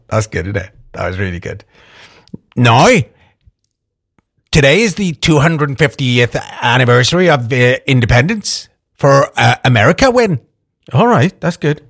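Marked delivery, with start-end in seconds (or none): 2.6-10.4 put-on slipping Northern Irish accent. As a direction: attempt a Northern Irish voice, not quite holding it. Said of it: "I'm losing the accent now".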